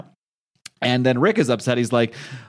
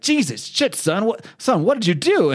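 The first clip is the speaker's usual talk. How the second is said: much higher, alarmed outburst at his son; a father horrified at what his boy just did; shocked dad; 8 semitones higher than usual. Retold or imitated. Dad shocked at son's deed.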